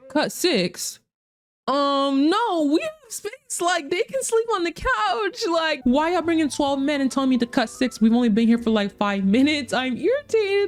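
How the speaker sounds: high-pitched, indignant squeak; mock outrage. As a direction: squeal it like you can't believe the nerve. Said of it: "I'm like".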